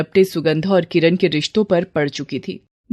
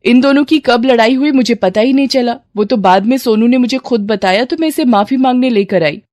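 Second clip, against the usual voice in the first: higher-pitched earnest self-defence; mildly hurt protest; 3 semitones higher than usual. Acted. Neighbour defending herself to her friend, mildly pleading. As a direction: explain yourself with a touch of upset.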